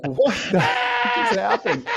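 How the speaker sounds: hammed-up what-just-happened outburst; stunned disbelief. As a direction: act out being dumbfounded. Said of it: "we're like".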